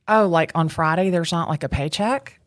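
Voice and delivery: retold disbelief, voice rising at the end; taken-aback newcomer's question; shocked. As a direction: ask it as if mildly stunned. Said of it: "in shock".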